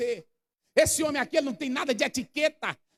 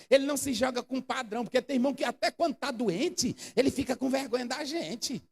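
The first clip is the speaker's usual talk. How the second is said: usual speaking voice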